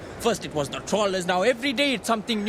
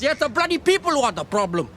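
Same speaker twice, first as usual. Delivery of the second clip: louder, angry burst at the end; bitter outburst; 4 semitones higher, 5 dB louder than usual. Acted. Fisherman to the boy, blaming people, in an angry burst. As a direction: spit out the blame on the people.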